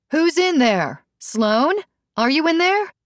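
high yell through the door. A narrator's reading. Brooke yelling through the locked door for Sloan, high yell. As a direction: yell while rattling the knob.

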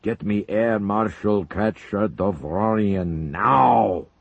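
loud, slow furious orders; enraged shout. Acted. Zelinkov ordering the colonel out, furious slow shouting. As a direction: pound out each command in rage. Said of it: "Zelinkov bellowed, enraged".

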